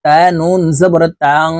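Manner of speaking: তাং: the নুন hidden in the nose, held with a hum; nasal ghunnah. Shown as a demonstration. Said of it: "গুন্নাহ করতে হবে". (তাং শব্দে নুন নাকের ভিতরে লুকিয়ে গুন্নাহ)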